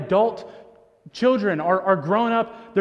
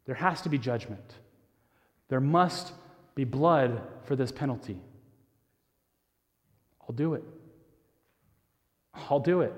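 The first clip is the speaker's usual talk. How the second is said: solemn quiet resolve; 7 semitones lower, 6 dB quieter than usual. Retold or imitated. Jesus in heaven offering himself for broken people, hushed and solemn. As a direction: speak it quietly, as a grave promise. Jesus volunteering to pay price.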